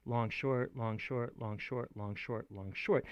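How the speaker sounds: long short chanted as an even pulse; chanted meter pattern; long short beat. Shown as a demonstration. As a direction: count the feet aloud. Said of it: "feet, they call it, of".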